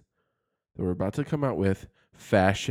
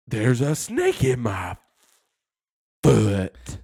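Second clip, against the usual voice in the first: pull string toy; 6 dB louder, slower than usual. Retold or imitated. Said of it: "That's what Woody says".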